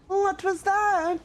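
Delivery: high, slow frightened question; startled. Real, not acted. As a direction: hear something creepy and freeze. Startled by noise in game.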